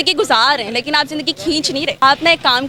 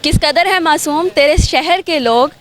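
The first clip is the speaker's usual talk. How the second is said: poem recitation. Acted. Poetic couplet intro.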